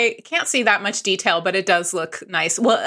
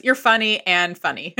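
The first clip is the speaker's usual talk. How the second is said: laughing; 4 semitones higher than usual. Real, not acted. Joking about doubling words.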